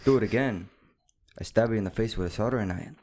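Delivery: lightly voiced Joe Dirt villain; terrible impression. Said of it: "That was a terrible impression".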